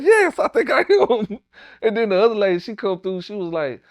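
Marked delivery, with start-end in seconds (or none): 0.0-1.4 dazed weak reply. Retold or imitated. Answering nurse after being shot.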